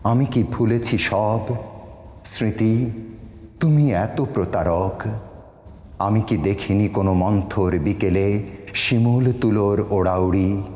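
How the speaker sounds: sustained, measured recital with long pauses; solemn Bengali poetry recitation; poem recitation. Acted. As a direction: recite each line as verse, drawing out the endings. আমি এই কবিতাটি আপনি অনুমতি দিলে আমি শোনাতে পারি.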